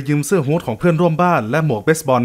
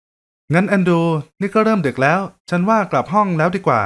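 higher, gentle female voice; kind young woman; 3 semitones higher than usual. Acted. Woman at the buffet offering help, higher gentle voice.

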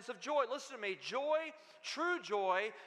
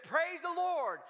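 high-pitched, exultant imitation; retold jubilant outburst of praise; overjoyed praise; 5 semitones higher than usual. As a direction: crow to the Lord in delight, hammed-up. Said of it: "She got more excited than ever".

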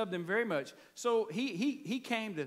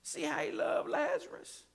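mimicking the Jews; 6 semitones higher than usual. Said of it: "Jews says".

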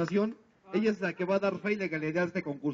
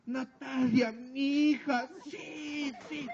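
high, cheering proud mother; proud mom cheer; 5 semitones higher, much slower than usual. Shown as a demonstration. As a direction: cheer for your daughter in a high voice. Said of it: "va a ser así".

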